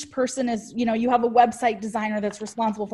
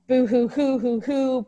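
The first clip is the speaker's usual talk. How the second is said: fake crying; 3 semitones higher than usual. Mock sad Facebook post.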